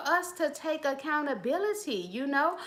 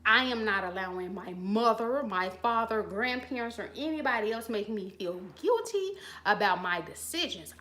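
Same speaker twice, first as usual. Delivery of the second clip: bold declaration; 5 semitones lower than usual. Pretend. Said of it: "when you finally get bold enough to say".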